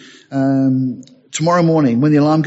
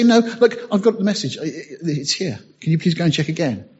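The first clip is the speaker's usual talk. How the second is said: insistent customer; 2 semitones higher than usual. Pretend. Acted customer insisting at counter.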